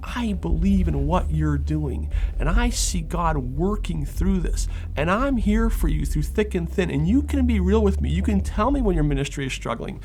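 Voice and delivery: rising, fervent, building encouragement; earnest encouragement. Pretend. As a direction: pour out heartfelt support.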